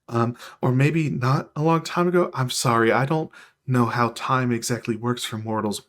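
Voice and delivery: mildly nervous, halting explanation; a touch of sheepish unease; nervous celestial. Acted. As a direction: hesitate and backtrack apologetically. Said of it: "looks nervously down and says".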